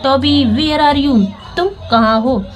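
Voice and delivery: Toby called out high and slow; loud, high call. Acted. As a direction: call out for the lost puppy, pitch up. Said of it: "ऊंची आवाज़ में तेज से बोलती हैं". (Meera Toby को ऊँची आवाज़ में पुकारती है)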